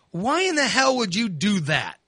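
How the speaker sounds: exasperated demand. Retold or imitated. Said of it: "I tell my mother".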